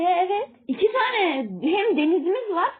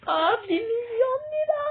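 heyecanlı; 7 semitones higher than usual. Acted. Seeing a fortune in the game.

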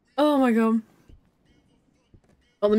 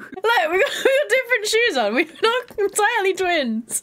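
higher voice, laughter creeping in; amused protest; 5 semitones higher than usual. Real, not acted. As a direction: protest through real giggles. Defends outfit while amused.

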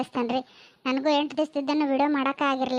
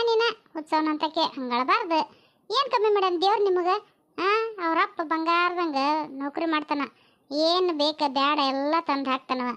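lightly voiced aunt, raised lilting pitch; visiting aunt, mildly chiding; 4 semitones higher than usual. Aunt asks new mother why she cries, mildly chiding. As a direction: chide and console in a lilting auntie voice.

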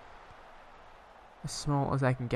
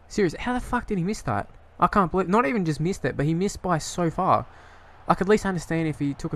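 exasperated rant; 4 semitones higher than usual. Real, not acted. Furious at his striker's miss.

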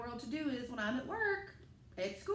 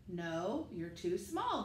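lower, firm grown-up voice; lightly voiced crowd of adults saying no; grown-ups refusing; 6 semitones lower, slower than usual. The people refuse.

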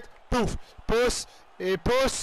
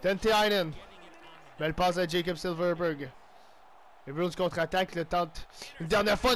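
lively sports-caster call of the action; commentating his own match as it unfolds; play-by-play commentary. Acted. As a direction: call the game like a TV announcer. Play-by-play of own hockey game.

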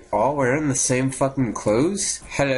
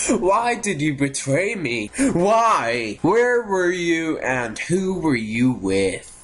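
melodramatic accusing; 3 semitones higher, slower than usual. Pretend. Melodramatic questioning of game character.

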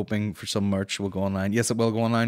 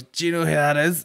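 higher, louder, lightly acted excitement; mock excited introduction; 6 semitones higher, 6 dB louder than usual. Guy showing off who he knows to a girl, mock excited. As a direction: play up the big reveal a little.

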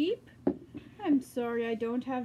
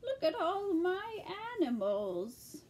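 put-on old lady voice. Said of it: "speak in the old lady voice".

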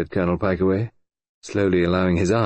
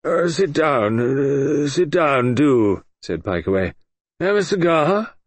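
higher, louder, gruff hospitality; gruff old colonel; 7 semitones higher, 3 dB louder, much slower than usual. Acted. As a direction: wave him in, offhand. Pikeaway offers a seat.

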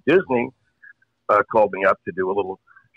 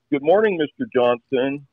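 computer voice; 6 semitones higher, slower than usual. Acted. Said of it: "the computer".

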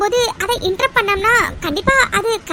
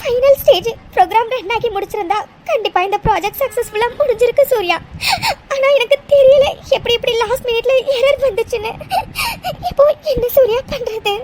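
tearful pleading. Acted. Mitra begs Surya to believe her, sobbing. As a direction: beg through sobs.

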